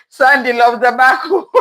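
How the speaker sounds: breaking into laughter mid-line; laughing. Real, not acted. Host rereads a viewer comment on the stream, laughing. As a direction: laugh your way through the words.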